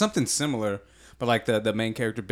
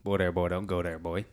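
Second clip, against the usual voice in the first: rapper ad lib; 4 semitones lower, 4 dB quieter than usual. Retold or imitated. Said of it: "what's his ad lib".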